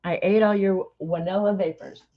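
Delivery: lightly imitated German accent; thick German accent. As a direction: repeat the coworker's line with a German touch. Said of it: "thick German accent".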